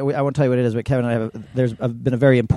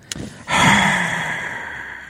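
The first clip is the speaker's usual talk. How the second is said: sigh; 8 semitones higher than usual. Real, not acted. Long sigh after being robbed.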